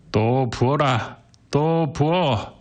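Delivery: put-on slow, drawn-out high drunken cry; satisfied drunk demanding another round; shouting. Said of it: "이렇게 외쳤다".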